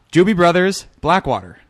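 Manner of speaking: slow, stretched Jersey vowels; New Jersey accent. Shown as a demonstration. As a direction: say it like a Jersey guy. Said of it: "practice my New Jersey accent on".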